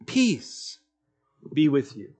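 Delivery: soft, gentle blessing spoken low; hushed peace blessing. Retold or imitated. Jesus gently greeting his frightened disciples, soft and hushed. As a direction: offer peace quietly, like calming frightened friends. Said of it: "The first thing he says to them is this".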